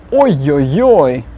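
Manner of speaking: a hint of a groaning oy, oy, oy; mock despair. Shown as a demonstration. Teacher miming a Russian in trouble. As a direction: sigh out the oys in mild dismay.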